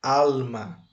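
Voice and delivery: "alma" with a strong "al"; stress on first syllable. Shown as a demonstration. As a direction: model Spanish "alma", weight on the first syllable. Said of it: "A pronúncia correta em espanhol é".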